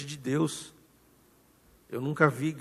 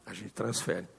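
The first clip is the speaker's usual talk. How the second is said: softer repeat; 5 semitones lower, 11 dB quieter than usual. Real, not acted. Repeated refrain, softer still.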